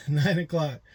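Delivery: slow, disbelieving laugh through the words; amused, slowed repeat. Real, not acted. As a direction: chuckle at how late that is.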